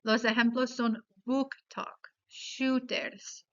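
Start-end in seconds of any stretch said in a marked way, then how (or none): 1.2-3.5 "book talk, shooters" with double O said oo; Spanish U vowel. Shown as a demonstration. Teacher giving double-O examples, "book talk, shooters" with Spanish U. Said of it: "la O se convierte en la vocal U".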